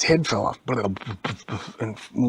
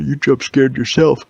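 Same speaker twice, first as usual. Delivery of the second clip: much louder, slow teasing call; 4 semitones higher, 10 dB louder than usual. Acted. The Siege mocks Elvie, loud slow teasing. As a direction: shout the joke at him. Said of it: "The Siege said".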